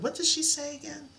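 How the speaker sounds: high, puzzled student asking again; mock bewildered learner; confused student. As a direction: play the lost student who forgot the lesson. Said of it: "you're like".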